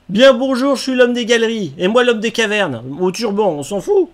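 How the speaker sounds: lightly voiced game character; NPC voice. Voicing game NPC dialogue.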